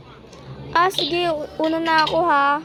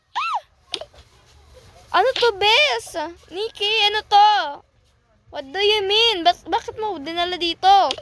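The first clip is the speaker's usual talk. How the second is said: shocked; 6 semitones higher than usual. Acted. Shocked at the thing.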